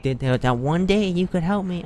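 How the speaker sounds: pleading annoyance, retold; retold exasperation. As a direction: complain to an unhelpful teammate, lightly acted. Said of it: "I was getting all mad".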